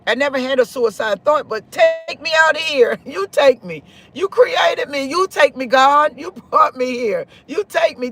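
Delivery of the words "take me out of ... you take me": higher-pitched, insistent plea; retold demand to God.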